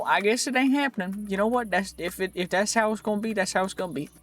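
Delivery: put-on folksy "them there" country-accent voice. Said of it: "This accent brought to you by".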